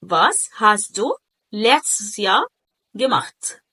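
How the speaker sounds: slow phrases with letztes in one piece; model to imitate. Shown as a demonstration. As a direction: present it for copying, letztes unbroken. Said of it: "حاول تقلد الصوت بقى". (نطق بطيء للتقليد، letztes حتة واحدة)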